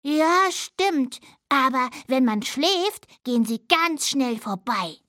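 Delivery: lightly voiced little dormouse; a young dormouse, just a touch brighter; little dormouse child. (leicht verstellte Stimme eines kleinen Siebenschläfers)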